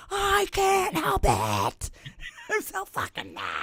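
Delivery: fake-sob about being too mad; mock whiny crying. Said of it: "I'm like".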